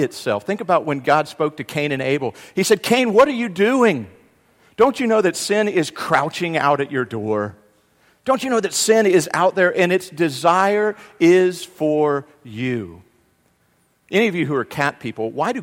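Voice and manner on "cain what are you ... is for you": loud, raised-pitch rebuke; stern God. Acted. God confronting Cain about sin at his door, stern. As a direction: confront him forcefully, voice lifted.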